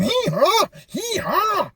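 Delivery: a donkey wailing under the stick; pained comic donkey braying. Acted.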